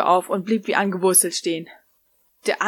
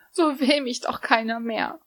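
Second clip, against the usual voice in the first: sobbing; 4 semitones higher than usual. Acted. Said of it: "schluchzte die junge Frau".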